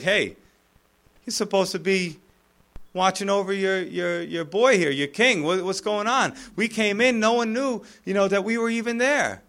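casual, incredulous ribbing; taunting. Acted. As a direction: needle him with mock disbelief. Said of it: "David's kinda taunting".

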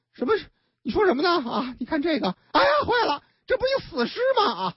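high, startled cry; horrified boyfriend. Acted. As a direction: recoil on seeing the dead baby. Boyfriend discovers the corpse.

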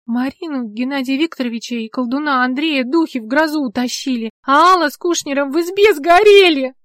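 rising to a high loud wail; grief-stricken cry building to a howl; bitter wail. A narrator's reading. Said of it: "горько завыла она".

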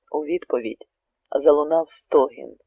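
plain reading voice

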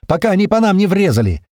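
high, loud urgent yell; loud alarmed cry; urgent shout. Acted. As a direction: yell before they fire. Shouting over gunfire.

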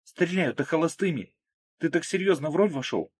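a hint of a chatty young woman; lightly voiced Margo. A narrator's reading. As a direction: Margo musing about her wedding dress. Margo speaks.

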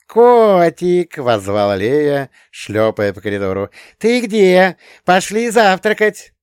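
put-on a small girl calling her cat to breakfast; little girl calling. A narrator's reading. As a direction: shout for the cat down the hall. Small child calling through corridor.

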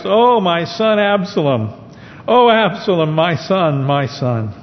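high, anguished cry of grief; loud cry. Acted. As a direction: cry out for the lost son. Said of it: "the king cried with a loud voice".

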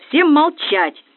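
high, loud barked order; barked command. A narrator's reading. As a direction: roar it down like a furious colonel. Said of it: "рявкнул полковник".

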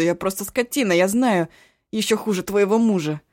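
loud pleading yell; yelling plea. Acted. Eshu yells his apology at the crying cook. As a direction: shout your remorse at her. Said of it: "заорал он так".

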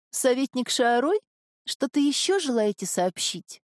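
a hint of a resigned young woman. Marin to councillor.

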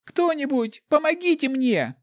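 very high, loud begging cry; desperate plea for help. A narrator's reading. Girl sprawled on stone begs the guards for help. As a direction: beg anyone to save you. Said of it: "взмолилась девочка".

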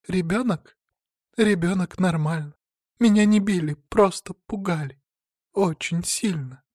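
high, fearful woman's voice; high fake-frightened reply. A narrator's reading. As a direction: play the scared victim. Woman answers, feigning fright.

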